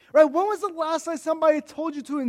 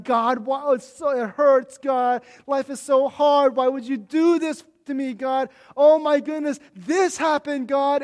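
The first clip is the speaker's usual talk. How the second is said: mock whiny, bratty prayer, a little louder; hammed-up self-pity aimed at God; whining complaint; 3 semitones higher, 5 dB louder than usual. Pastor imitating his own complaining prayers to God, whiny. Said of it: "It's a lot of whining and complaining".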